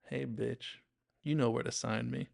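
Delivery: lightly playful, teasing fan. Retold or imitated. Big bald guy to the comedian, playful. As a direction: toss it out as friendly banter. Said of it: "In, in a playful voice".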